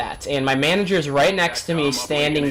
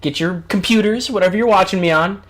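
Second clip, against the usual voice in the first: excited host call; 4 semitones higher, 5 dB louder than usual. Acted. Hyped host calling viewers over.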